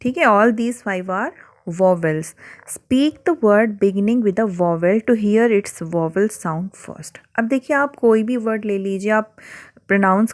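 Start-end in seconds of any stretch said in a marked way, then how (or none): 0.2-7.2 slow, deliberate textbook reading; slow reading aloud. Acted. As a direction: read each word out slowly for the class.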